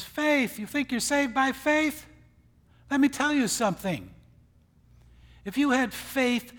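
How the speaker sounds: loud, high mocking challenge; mocking the Lord's words. The Lord mocking faith in strength, loud and high. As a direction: throw the question back in scorn. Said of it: "the Lord really mocks that position".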